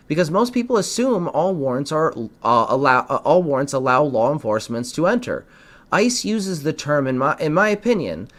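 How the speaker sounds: lively, emphatic read-aloud delivery; scripted explainer read. Acted. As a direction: read it out like a public advisory. Reads out a prepared explainer segment.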